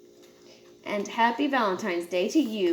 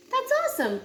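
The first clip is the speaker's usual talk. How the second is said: pitched way up with delight; excited; 13 semitones higher, faster than usual. Acted. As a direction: squeal it out happily. Callie pleased by Pete's news.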